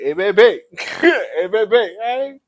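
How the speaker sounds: mock street flirt greeting; imitating New Orleans men. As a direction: mimic a smooth man calling to a woman on the street. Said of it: "the way y'all be talking".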